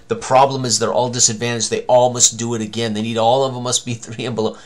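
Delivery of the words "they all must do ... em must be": ordinary delivery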